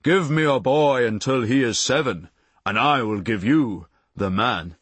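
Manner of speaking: slow, grave pronouncement in a lightly put-on voice; mock solemn Jesuit maxim. Quoting the Jesuit saying to the audience, mock solemn and slow. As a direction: intone it like a stern old Jesuit handing down a rule. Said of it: "The Jesuit saying is".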